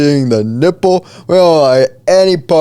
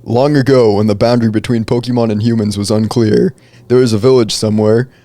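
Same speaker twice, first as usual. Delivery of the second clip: epic fantasy narrator; 3 semitones lower, faster than usual. A narrator's reading. Reads a folktale aloud.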